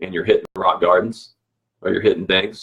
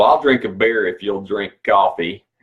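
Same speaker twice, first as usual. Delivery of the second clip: bad, overdone, exaggerated put-on Texas accent. Quoting a man nicknamed Big Tech: bad Texas accent. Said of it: "that's a bad Texas accent".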